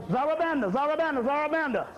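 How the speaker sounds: chanted roll call of spirits, each name falling; intoning names, answered by the congregation; ritual invocation. Acted.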